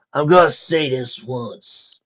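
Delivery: slow menacing order; lightly gruff mugger command. Acted. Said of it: "he ordered".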